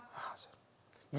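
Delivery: a breathless whisper of students saying हाँ sir; whispered reply. Acted. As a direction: mumble it like pupils in the back row. Teacher voices students answering.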